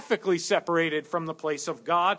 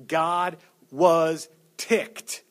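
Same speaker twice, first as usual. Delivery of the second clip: slow deadpan; 4 dB louder, much slower than usual. Acted. Punchline, very slow.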